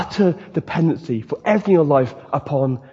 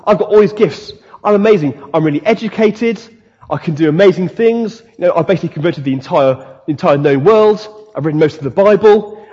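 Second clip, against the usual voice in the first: boastful. Retold or imitated. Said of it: "Apostle Paul says".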